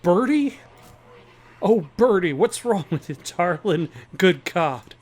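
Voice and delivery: mock Southern accent for the old farmer; bad southern accent. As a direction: play a rough Southern farmer badly, Southern accent. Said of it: "like, a southern accent, and a bad one to boot".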